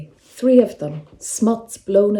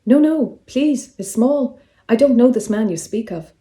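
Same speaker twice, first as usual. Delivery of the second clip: eager pleading; 4 semitones higher, 4 dB louder than usual. Acted. Solicitor pleads as she walks away.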